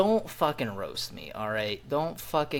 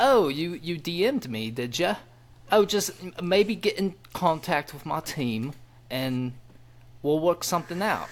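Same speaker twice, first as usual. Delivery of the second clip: mock Irwin voice; 5 semitones higher than usual. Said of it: "And he was like".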